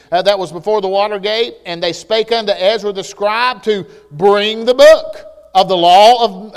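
measured formal reading of the King James text; scripture reading. Acted. Preacher to congregation, reading Nehemiah in a formal reading voice. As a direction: read it out like Scripture.

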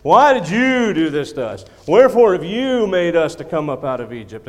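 loud, high, aggrieved people shouting at their leader; a crowd in his face demanding water; the congregation yelling at Moses; loud complaining crowd. Acted. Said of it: "they just moaned and complained".

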